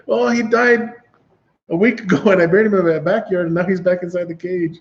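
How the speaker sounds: hint of a flustered old lady; voiced neighbor.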